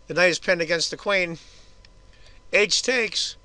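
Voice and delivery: normal talking voice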